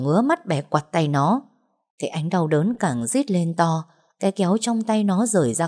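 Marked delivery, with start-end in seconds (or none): none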